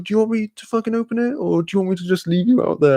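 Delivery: high-pitched impression of an exasperated girl; imitated annoyed girl. Voices the annoyed girl's retort.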